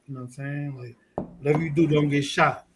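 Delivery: ordinary talk, nothing marked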